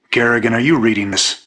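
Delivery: urgent radio hail; calling out. Acted. Calling Kerrigan over the radio.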